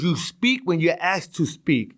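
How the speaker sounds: slow, measured put-down; imitating a domineering cop; stern cop rebuke. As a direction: spell it out slowly, with authority. Retold cop putting him down.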